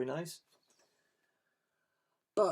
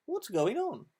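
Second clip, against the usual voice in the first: puzzled animals; 9 semitones higher than usual. Acted. Animals ask about missing eggs.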